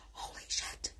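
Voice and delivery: voiceless, stunned whisper; hushed aside of disbelief; awed whisper. Retold or imitated. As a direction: whisper it in amazement, barely audible. Acts awed realisation of own power.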